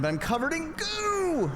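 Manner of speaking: high, dismayed cry of goo; dismayed exclaim. Acted. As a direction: squeal at being covered in goo. Game character exclaims covered goo.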